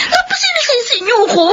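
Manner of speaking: upset. Acted. Daughter blamed, arguing.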